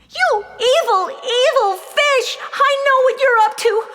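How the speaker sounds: put-on girl raging at the fish who betrayed her; enraged accusation. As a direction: hurl it at him like a curse. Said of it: "her face turned red with rage and betrayal".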